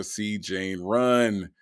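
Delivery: slow, laboured imitation of a beginning reader; mock a first grader plodding through a primer; first-grader reading. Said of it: "read like a first grader".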